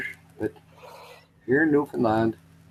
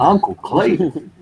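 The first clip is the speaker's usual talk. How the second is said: Uncle Cletus voice; 3 semitones higher, slower than usual. Retold or imitated. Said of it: "it's only Uncle Cletus that talks this way".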